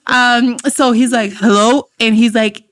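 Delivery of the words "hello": lightly mimicked manly hello. Father answers the phone, lightly imitated manly voice. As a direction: answer with a touch of manly heft. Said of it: "his voice".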